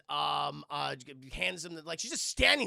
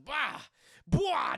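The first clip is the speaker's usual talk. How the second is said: trash-flinging noises; 8 semitones higher, 5 dB louder than usual. Retold or imitated. Imitating trash being thrown about.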